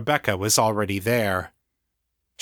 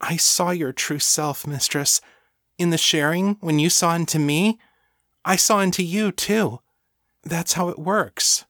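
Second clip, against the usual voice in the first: high, adoring devotee; fervent thrall to her mistress; devoted servant; 7 semitones higher than usual. Acted. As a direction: explain it earnestly in a raised, girlish-light voice. Voices Lena in story.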